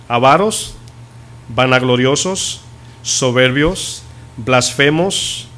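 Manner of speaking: slow, deliberate list, each word weighed; solemn scripture reading. Acted. Preacher reading Paul's list of sins, slow and solemn. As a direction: read the sins out one by one, slowly.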